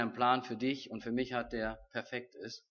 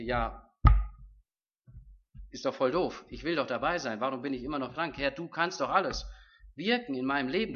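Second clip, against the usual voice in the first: frustrated prayer; 3 semitones higher, 4 dB louder than usual. Retold or imitated. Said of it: "dass ich dann denke".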